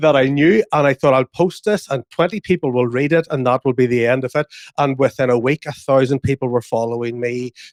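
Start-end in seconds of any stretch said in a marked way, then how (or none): none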